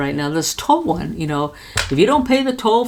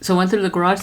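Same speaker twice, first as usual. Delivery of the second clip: ordinary delivery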